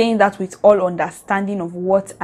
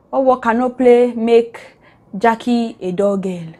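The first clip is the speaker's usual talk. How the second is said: playful recitation; 3 semitones higher than usual. Real, not acted. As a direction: stretch out each word of the saying. Reciting her own improvised twisted proverb.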